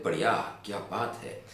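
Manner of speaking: sincere praise. Shown as a demonstration. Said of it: "ये कहते हैं".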